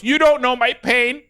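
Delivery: high, slow mock-tragic toddler; aggrieved little boy. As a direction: imitate a wounded small son, drawn out. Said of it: "He's three years old at the time".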